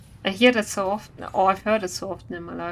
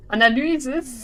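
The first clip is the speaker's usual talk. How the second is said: "Analysis" louder, German: AH-nah-lü-zis; German pronunciation; 4 semitones higher, 5 dB louder than usual. Shown as a demonstration. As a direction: call out "Analysis" German style. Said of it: "For German".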